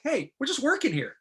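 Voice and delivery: high-pitched retold reassurance; imitated brush-off. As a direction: imitate an actor waving off the fuss. Imitates actress brushing off his worry.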